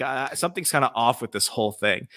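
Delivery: softly voiced quiet cop. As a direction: play the quiet cop, holding the volume down. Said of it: "I was, like, quiet cop".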